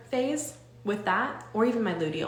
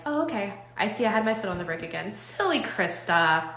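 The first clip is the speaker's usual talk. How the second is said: gentle self-talk. Shown as a demonstration. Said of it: "if we just talk to ourselves like this".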